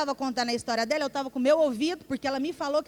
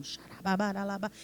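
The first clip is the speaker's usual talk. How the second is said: falar em línguas; 4 semitones lower, 3 dB quieter than usual. Retold or imitated. Imita a oração em línguas.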